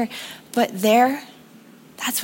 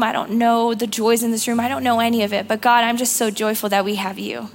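prayer. Real, not acted. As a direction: pray gently for the room. Leads the congregation in prayer.

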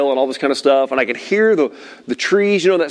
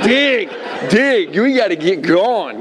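high, driving paddling orders; re-enacted panicked coaching; retold urgent urging; 6 semitones higher, slower than usual. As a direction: push each command out urgently. Urging son to paddle in storm.

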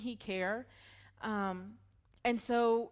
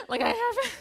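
panicked gasp; 5 dB louder than usual. Retold or imitated. Confessing to pastor, panicked gasp.

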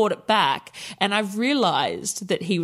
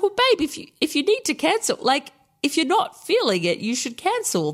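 high, sugary voice, soothing a nervous client; high sweet reassurance; 9 semitones higher than usual. Retold or imitated. To a nervous client wanting to cancel, high sweet reassurance. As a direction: coo it up high like it's no big deal.

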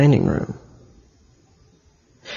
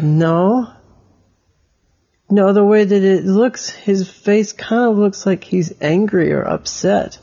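put-on lightly higher boy's voice disagreeing; higher child voice; 5 semitones higher than usual. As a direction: pitch up a little as Elliot.

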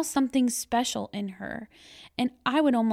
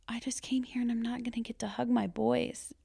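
sad inner thought; 2 semitones higher, 5 dB quieter than usual. Retold or imitated.

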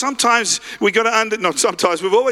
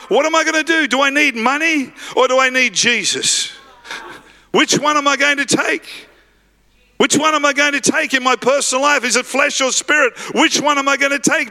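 higher-pitched acted dilemma; agitated self-questioning; 5 semitones higher than usual. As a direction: voice a beggar urgently weighing his choice. Beggar torn between money and Jesus.

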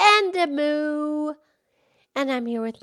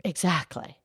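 much lower, gentle cow voice; Mildred the cow; 7 semitones lower, 8 dB quieter than usual. Acted. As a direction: drop the pitch low to play the old cow. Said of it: "Mildred the Moo Moo Cow".

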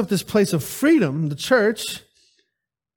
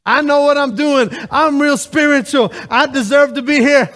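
snooty, louder, higher self-important churchgoer; high and mighty; 4 semitones higher, 4 dB louder than usual. Retold or imitated. Mocking a smug churchgoer, haughty and loud. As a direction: lord it over everyone, nose in the air. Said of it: "acting all high and mighty with your nose high".

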